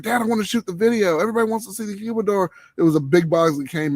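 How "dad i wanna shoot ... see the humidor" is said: imitating his eager son. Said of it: "he's like".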